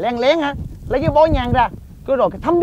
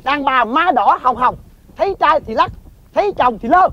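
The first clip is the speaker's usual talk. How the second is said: reciting verse. Acted. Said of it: "Mày nghe nè".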